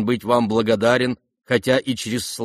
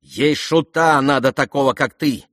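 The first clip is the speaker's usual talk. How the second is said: higher, louder rising scold; flustered scolding; 4 semitones higher, 5 dB louder than usual. Acted. Lizaveta catching herself and snapping at the prince. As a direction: snap at him for eavesdropping.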